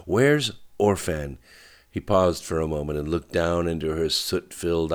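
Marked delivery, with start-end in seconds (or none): 0.0-1.4 slow, higher demand; understated yell, each word stretched; screamed. A narrator's reading. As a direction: demand it with mild narrated force. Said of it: "she screamed".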